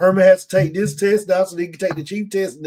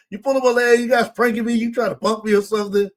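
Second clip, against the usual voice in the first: put-on Chicago accent; 5 semitones higher than usual. Recapping Joe questioning Captain Tony, in a light Chicago accent. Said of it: "He's so Chicago".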